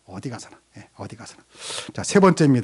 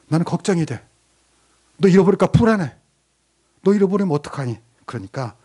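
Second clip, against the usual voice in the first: gentle pleading father. Retold or imitated. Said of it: "부드럽게 말합니다".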